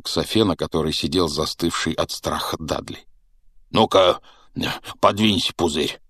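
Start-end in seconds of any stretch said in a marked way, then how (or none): 3.7-6.0 commanding giant. Acted. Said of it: "приказал незнакомец".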